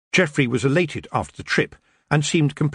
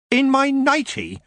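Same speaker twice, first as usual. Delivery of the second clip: slow, high, scandalised echo; dismayed Tiffany; slower than usual. Acted. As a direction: repeat it in disbelief.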